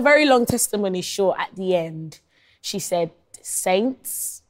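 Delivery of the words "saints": put-on Jamaican accent. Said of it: "imagine this with a thick Jamaican accent".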